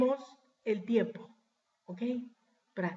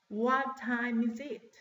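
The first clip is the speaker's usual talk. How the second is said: slower, each word set apart; slow model question; slower than usual. Shown as a demonstration. Teacher repeating the clock question for class, slow model question. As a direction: draw the question out for learners.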